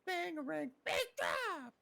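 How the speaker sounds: high, loud hype call; hyped. Pretend. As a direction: hype the drop like a DJ. Hyped music announcing.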